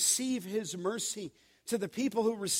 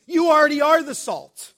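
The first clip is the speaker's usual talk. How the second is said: higher and louder, hammering the word are; emphatic preaching; 6 semitones higher, 11 dB louder than usual. Real, not acted. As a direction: proclaim it to the whole church. Preacher building to climax.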